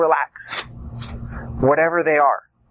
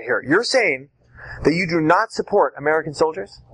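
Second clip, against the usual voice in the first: plain. Shown as a demonstration. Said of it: "Let me get this straight".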